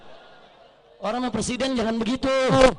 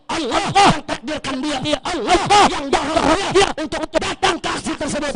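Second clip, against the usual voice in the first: loud, punched declaration; emphatic oratory; 6 dB louder than usual. Real, not acted. Orator tells the crowd God brought the President, emphatic declaration. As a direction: drive each phrase home to the crowd.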